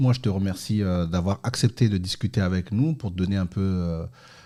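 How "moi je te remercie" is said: ordinary talk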